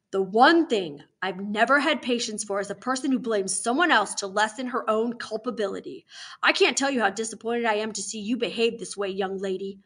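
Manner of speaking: emphatic scolding with punched words; measured adult reprimand; stern warden, disappointed. Acted. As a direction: lecture a child with authority.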